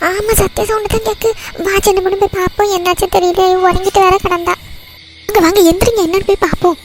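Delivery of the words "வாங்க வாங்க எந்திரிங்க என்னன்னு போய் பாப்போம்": urgent call. Acted. Urging others to hurry.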